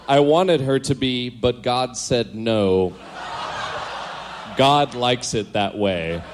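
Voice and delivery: mock-official starship log delivery; captain's log reading. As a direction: read a kid's diary like a solemn captain's log. Reads diary as captain's logs.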